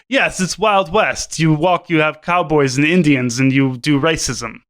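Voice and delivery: slow, hammed-up Russian accent; bad Russian accent. Mocking Europeans' view of America in a Russian accent. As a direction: drag out the words in a mock Russian accent. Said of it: "the only thing I can do is a Russian accent".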